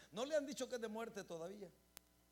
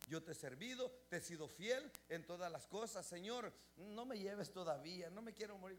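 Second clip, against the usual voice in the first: pleading prayer; 3 semitones lower than usual. Retold or imitated. Ezequías pleading with God.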